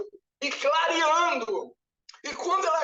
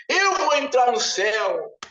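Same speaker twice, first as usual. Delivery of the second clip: loud proud boast; a man loudly boasting he'll get into heaven; boastful claim; 5 dB louder than usual. Retold or imitated. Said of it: "um falava pro outro assim".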